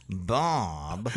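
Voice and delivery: sudden shouted name; grandmother's shout. Retold or imitated. Grandmother ending a French sentence by shouting Bob. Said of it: "long sentence and then say".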